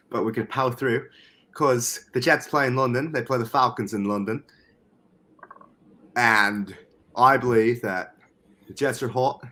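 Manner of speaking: amateur British accent drifting towards Australian; attempted British accent. Shown as a demonstration. Podcaster making his football pick, in an awkward British accent. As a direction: have a wobbly go at British. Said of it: "try and do my British accent".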